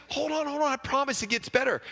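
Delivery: high, eager husband; pleading husband. Acted. Husband asking his wife to wait, high and eager. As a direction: beg her to wait.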